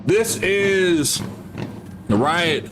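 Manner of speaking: breathless after running upstairs; panting between phrases; out of breath. Real, not acted. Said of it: "I'm out of breath".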